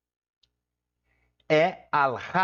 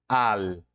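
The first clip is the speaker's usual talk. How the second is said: "almíbar" in three widely spaced, lower syllables; 6 semitones lower than usual. Shown as a demonstration. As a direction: separate al, mí and bar in "almíbar" for the class. Redit le mot syllabe par syllabe.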